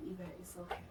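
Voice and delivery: calm them down gently and quietly; soothing. Retold or imitated. Friend telling crying patient to shower, soft soothing.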